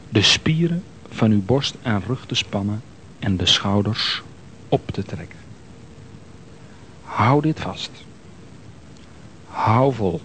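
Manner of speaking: breathy unvoiced whisper. Relaxation guide whispers instruction.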